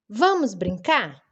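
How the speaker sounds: slow question tune on "Vamos brincar"; questioning intonation. Shown as a demonstration. Teacher demonstrating a question mark, questioning. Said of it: "Eu falei de uma forma diferente".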